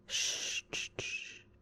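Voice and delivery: breathy shushing to calm her down; soothing shush. Acted. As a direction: hush her gently, like a nurse. Nurse soothing waking patient.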